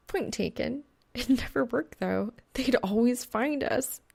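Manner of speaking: sighed, resigned lament; sighing. Acted. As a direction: say it on a sigh. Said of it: "she sighs".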